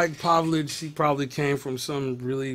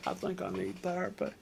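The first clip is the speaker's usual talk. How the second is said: Bill Clinton impression; 3 semitones higher, 10 dB quieter than usual. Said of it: "As Bill Clinton would say".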